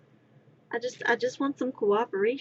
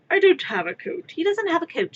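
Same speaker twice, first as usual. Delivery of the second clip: quoted cartoon dialogue; 7 semitones higher, 5 dB louder than usual. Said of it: "quoting D B Z abridged".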